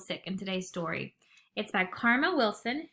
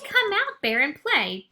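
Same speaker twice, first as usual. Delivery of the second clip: high, loud call to come play; friends calling out; 6 semitones higher, 6 dB louder, slower than usual. Acted. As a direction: call up to the cave eagerly. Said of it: "His friends gather round".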